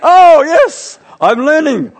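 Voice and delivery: high, loud burst of delight; gleeful triumph. Real, not acted. Pastor cheering himself for using the word faff right, gleeful triumph. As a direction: celebrate it like a small victory. Celebrates using new slang correctly.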